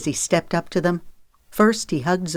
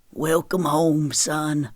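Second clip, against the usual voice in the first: slow, heartfelt fatherly greeting; a touch of emotion, taken slowly; hearty, emotional welcome; slower than usual. A narrator's reading. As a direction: welcome your son home, moved. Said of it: "Daddy said heartily, his voice quivering with emotion".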